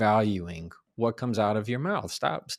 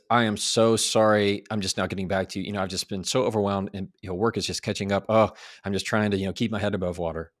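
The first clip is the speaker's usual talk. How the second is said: gushing over-apology, rushed; fast, fretful apology; mock apologetic; faster than usual. Shown as a demonstration. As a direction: pile on the excuses, hurried and sorry. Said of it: "Instead of this".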